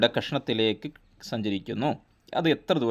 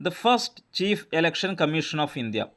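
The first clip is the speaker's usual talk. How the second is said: slow dictation reading; 3 semitones higher, much slower than usual. Shown as a demonstration. Teacher reading out quiz question.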